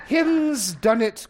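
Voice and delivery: slow, high, exaggerated mimicry; imitating Mother's teasing, stretched out; mocking baby grammar. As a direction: draw out each wrong word in loud mockery. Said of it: "relentlessly mocking bad grammar".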